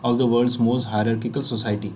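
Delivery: slow, even reading aloud. Shown as a demonstration. Teacher reading the sample sentence slowly to students. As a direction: read it out slowly and evenly. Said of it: "तो यहाँ पे".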